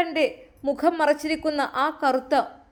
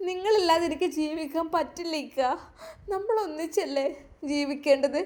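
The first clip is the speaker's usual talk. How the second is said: tearful plea; 3 semitones higher, 5 dB quieter than usual. Acted. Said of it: "പൊട്ടിക്കരഞ്ഞു".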